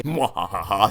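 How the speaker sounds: low evil cackle, hammed up; maniacal villain laugh. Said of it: "talk like a maniacal Disney villain".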